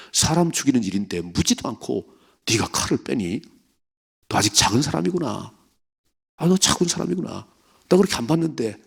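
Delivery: rising, incredulous chiding of David; a disappointed God scolding his proud servant. Acted. God scolds David for drawing his sword, mocking disbelief.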